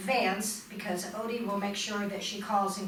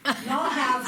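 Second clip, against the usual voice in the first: loud, commanding teacher addressing a class; 4 semitones higher, 6 dB louder than usual. Real, not acted. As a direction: call the room to attention like a teacher. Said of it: "that was my teacher voice".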